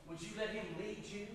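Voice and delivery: hushed pastoral invitation; gentle appeal. Real, not acted. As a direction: drop down and plead quietly. Preacher makes a quiet appeal.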